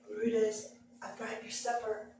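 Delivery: low, hushed call to the dog; hushed call to a growling dog; quiet coaxing. Retold or imitated. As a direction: coax him softly, crouched down. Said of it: "got down real low".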